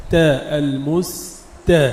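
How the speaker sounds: تاء light and thin, also in المستقيم; thinned ta. Shown as a demonstration. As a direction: slowly model the light t of المستقيم. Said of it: "التاء بعدها مرققة". (ترقيق التاء في المستقيم)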